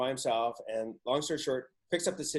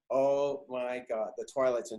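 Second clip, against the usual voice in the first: slow, dreamy. Real, not acted.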